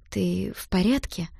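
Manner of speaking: slow, pitiful asking; plaintive question. Acted. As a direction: ask gently, worried for him. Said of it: "жалобно спросила я". (жалобно и медленно)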